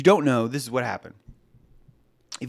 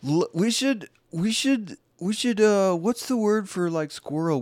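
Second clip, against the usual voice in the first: much higher, fumbling mock official; hammed-up flustered officer, pitched up; 10 semitones higher, 3 dB louder than usual. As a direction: stammer like a panicking general in a high voice.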